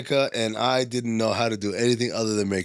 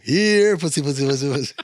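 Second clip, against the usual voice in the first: convict taunt. Retold or imitated.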